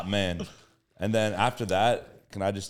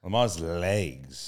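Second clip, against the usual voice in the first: slow emphatic; 3 semitones lower, much slower than usual. Retold or imitated. Echoing the pick slowly.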